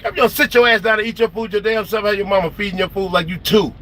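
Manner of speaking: high-pitched retold exasperation; mock telling-off, starting high and easing down; pissed-off scolding. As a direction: scold a child in exaggerated disbelief. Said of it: "I be pissed off. Like".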